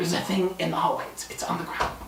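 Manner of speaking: rapid, hushed whisper.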